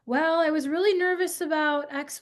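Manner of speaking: put-on light child voice. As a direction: play the worried son. Son answering nervously.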